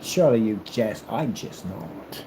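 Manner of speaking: hammed-up period formality; old-time gentlemen. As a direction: answer with solemn stage dignity. Acts out old-time gentlemen's exchange.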